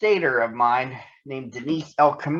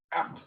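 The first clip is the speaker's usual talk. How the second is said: spoken hiccup; 9 dB quieter than usual. Acted. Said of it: "said Nittany Lion instead of".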